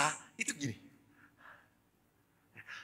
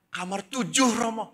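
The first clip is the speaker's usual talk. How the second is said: lightly voiced child, pitched high; a hint of an eager pupil, high; schoolchild; 9 semitones higher, 4 dB louder than usual. Boy gives priest his room, light child voice. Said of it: "Saya ketemu anak S D".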